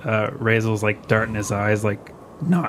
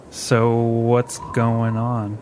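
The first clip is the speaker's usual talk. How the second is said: drawn-out question; much slower than usual. Acted. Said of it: "he's like".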